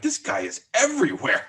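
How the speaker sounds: high, loud amazement; amazed. Retold or imitated. Fan seeing the same name everywhere, amazed. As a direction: blurt it out, wide-eyed.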